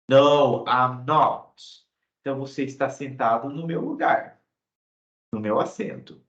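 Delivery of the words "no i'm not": firm "No," louder; contradicting. Shown as a demonstration. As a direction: push back on "No". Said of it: "contradizer o que a pessoa disse". (contradizendo com firmeza)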